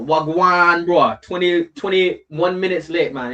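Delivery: lightly put-on Jamaican lilt, drawn out; mock Jamaican accent. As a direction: imitate a Jamaican guy calling out. Puts on Jamaican patois greeting.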